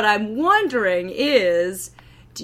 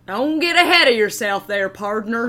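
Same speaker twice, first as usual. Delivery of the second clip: cowboy drawl. Acted. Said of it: "stop speaking Elvish".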